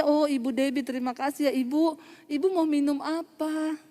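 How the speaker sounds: thankful and courteous, mildly played; gracious offer. Healed woman thanking the preacher and offering a drink, gracious. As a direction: imitate a polite, grateful host.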